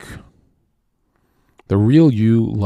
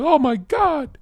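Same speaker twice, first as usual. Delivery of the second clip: mock gasp; slower than usual. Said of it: "She's like".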